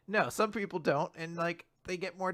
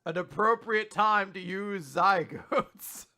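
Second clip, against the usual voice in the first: slow, self-satisfied word-of-the-day voice; pompous hero; 4 semitones higher, 3 dB louder, slower than usual. Retold or imitated. Cohost mocking All Might showing off a word, slow and smug. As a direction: show off a new word slowly. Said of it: "he was like".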